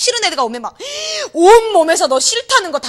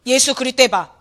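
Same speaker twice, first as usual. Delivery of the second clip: possessed man's voice; 4 dB louder, slower than usual. Retold or imitated. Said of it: "남자애가 이런 목소리로 막 이러는 거예요".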